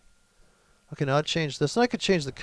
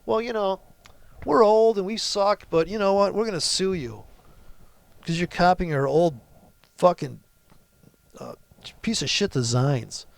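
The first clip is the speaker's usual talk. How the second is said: mock Gibson Guitar; 4 semitones higher than usual. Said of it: "It's like Gibson Guitar".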